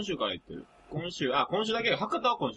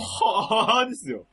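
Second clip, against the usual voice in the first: slow, laughing delivery of the punchline; 4 semitones higher, 4 dB louder, much slower than usual. Real, not acted. Telling friends his baffled reply, slow and laughing. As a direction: drag it out through a laugh.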